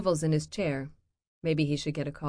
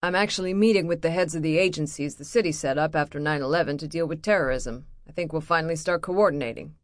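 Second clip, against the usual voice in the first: defensive; 4 dB louder, faster than usual. Acted. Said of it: "he goes on the defensive".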